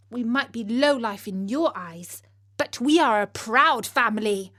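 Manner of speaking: high, loud telling-off of the king; indignant daughter. Acted. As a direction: stand up for your dad in front of the court. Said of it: "she had words with the king".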